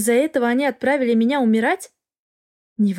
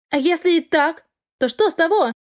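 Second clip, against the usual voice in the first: higher, sharp retort; snapping back; 6 semitones higher than usual. Acted. Girl snapping back at the dragon, defiant. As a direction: throw it back at him defiantly. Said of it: "Огрызнулась она".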